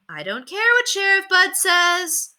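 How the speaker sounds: high, slow, a touch of exasperation; a hint of an annoyed mother; lightly voiced mother. A narrator's reading. Mother answers from the kitchen, mildly exasperated.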